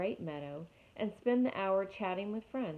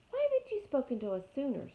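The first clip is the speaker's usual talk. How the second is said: owl screech; 7 semitones higher, faster than usual. Acted. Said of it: "screeched the owl".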